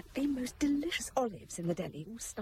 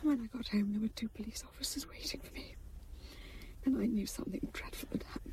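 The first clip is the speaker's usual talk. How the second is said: tearful whisper; 4 dB quieter than usual. Acted. Wife recalls accident tearfully.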